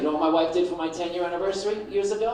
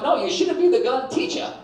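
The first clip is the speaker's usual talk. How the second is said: loud, higher flat no; firm refusal; 8 semitones higher, 7 dB louder than usual. Retold or imitated. Husband refusing wife the gun, loud and emphatic. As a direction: shut her down loudly. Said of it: "I'm like".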